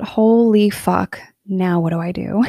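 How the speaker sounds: retold daunted disbelief; stunned realization. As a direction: let it sink in slowly. Retold stunned thought on getting home.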